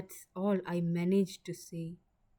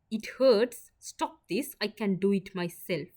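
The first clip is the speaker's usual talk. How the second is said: pained protest; 3 semitones higher, 5 dB louder than usual. Acted. Ivy pushes him off her wound, loud and pained. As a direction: snap at him to stop the sting.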